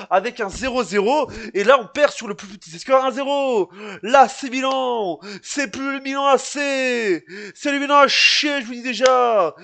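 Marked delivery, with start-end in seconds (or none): 4.0-8.6 disgusted rant. Real, not acted. Fan ranting about his club.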